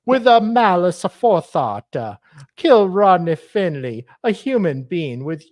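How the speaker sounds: put-on Hispanic accent. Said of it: "I'm trying to do a Hispanic accent".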